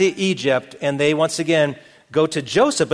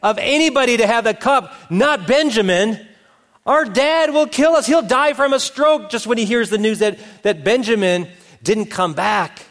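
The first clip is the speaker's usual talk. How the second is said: high, louder acted panic; horrified; 7 semitones higher, 4 dB louder than usual. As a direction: cry it out like brothers dreading their father's reaction. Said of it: "the brothers are horrified".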